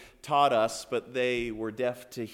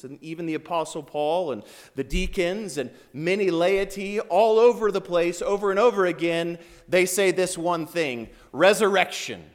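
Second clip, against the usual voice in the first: forceful, driving proclamation; emphatic preaching; 4 semitones higher, 6 dB louder than usual. Real, not acted. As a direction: build it into a proclamation.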